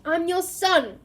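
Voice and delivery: high, loud, slow anguished cry; desperate scream. Acted. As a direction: scream it up at your father. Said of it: "he screamed up at Crouch".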